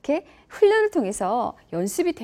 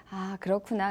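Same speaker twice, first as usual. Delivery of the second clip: gentle understanding; 4 semitones lower, 7 dB quieter than usual. Acted. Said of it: "톤도 왠지 좀 더 부드러워지는".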